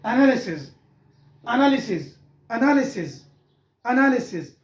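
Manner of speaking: एनालिसिस as "a-na-le-sis"; careful एनालिसिस, stress toward "na"; correct एनालिसिस. Shown as a demonstration. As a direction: model एनालिसिस with a falling end, spaced repeats. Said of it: "तो इसकी correct pronunciation है".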